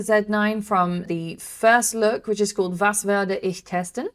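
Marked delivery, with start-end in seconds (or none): 2.8-4.1 German accent. Real, not acted. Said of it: "This is my German accent testing here".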